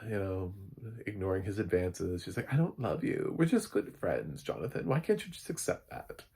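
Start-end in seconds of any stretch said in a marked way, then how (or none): 2.5-6.2 high, lilting movie-heroine voice; a classic film star. Retold or imitated. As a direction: plead sweetly, leaping up in pitch at the end. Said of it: "that's my Doris Day accent".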